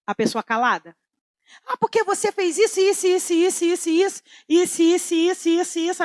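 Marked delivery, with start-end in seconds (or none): 1.7-6.0 higher-pitched nagging repetition; mock nagging rant. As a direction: rattle on like someone who won't stop complaining. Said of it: "a pessoa assim".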